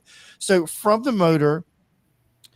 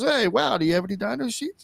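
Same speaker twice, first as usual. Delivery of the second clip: much higher, faux-impressed innocent question; passive-aggressive impression; 7 semitones higher than usual. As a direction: imitate a friend feigning wide-eyed interest. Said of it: "passive-aggressive".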